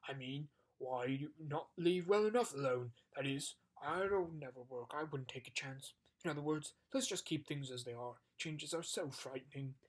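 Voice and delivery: booming giant, worried; anxious giant. Acted. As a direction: beg to leave things alone. Giant voiced.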